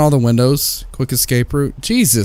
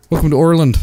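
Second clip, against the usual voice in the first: Irish accent; 3 semitones higher, much faster than usual. Shown as a demonstration. Gamer trying accents, a mock Irish accent. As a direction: push the Irish accent harder. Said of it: "on learning new accents".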